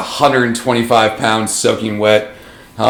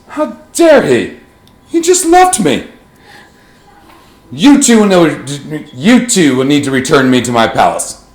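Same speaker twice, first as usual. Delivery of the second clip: haughty noble lady. Acted. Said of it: "the lady in scarlet ... goes".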